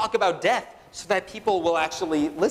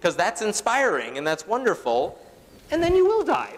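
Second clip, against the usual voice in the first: mock Richard Dawkins; 3 semitones higher than usual. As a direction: send up a cheerful lecture on mortality, then squeak the punchline. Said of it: "Or the Richard Dawkins, like".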